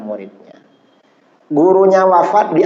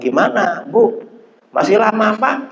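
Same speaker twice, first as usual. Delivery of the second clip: retold bedside exchange; 6 semitones higher than usual. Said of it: "kata susternya".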